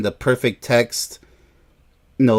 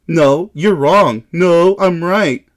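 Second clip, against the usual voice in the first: mock argument; 4 semitones higher, 3 dB louder, slower than usual. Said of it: "Let's argue about this stuff".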